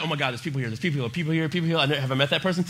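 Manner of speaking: a hint of a people-loving dog; lightly voiced dog. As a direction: rattle it off like a dog checking out visitors. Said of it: "Remy's favorite thing to do is he's like".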